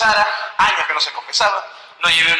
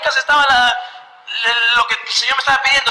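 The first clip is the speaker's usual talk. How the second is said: self-reproach; 8 semitones higher than usual. Retold or imitated. Man realising help was near, rueful exclamation. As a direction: scold yourself in wonder.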